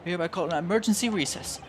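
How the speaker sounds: urgent courtroom orders, pitch lifted; commanding judge. Acted. Judge orders the bailiff to clear the court, commanding. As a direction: declare it with formal urgency.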